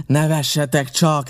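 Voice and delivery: pirate sneering at the laughing men; scornful shout. A narrator's reading. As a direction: dare them to laugh. Pirate mocking the laughing defenders.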